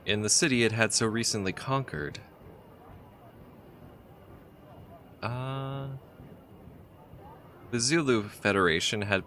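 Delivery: reading the game's story text aloud, evenly; story narration. A narrator's reading. Player reading the adventure's story, steady narrator voice. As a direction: tell it like a travel tale.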